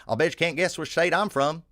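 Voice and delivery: a teasing challenge in a mock Southern accent. Southern man daring him to guess his state, imitated Southern accent. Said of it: "a guy with a thick Southern accent".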